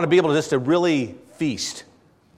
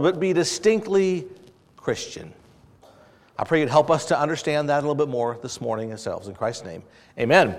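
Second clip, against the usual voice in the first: prayer; 4 semitones lower than usual. Acted. Pastor praying before the sermon, reverent and hushed. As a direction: pray over the congregation, low and humble.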